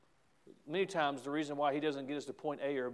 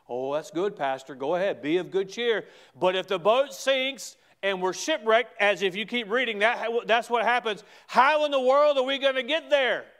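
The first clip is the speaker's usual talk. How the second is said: doubting churchgoer; 6 semitones higher, 7 dB louder than usual. Retold or imitated. Congregant's doubting voice acted out.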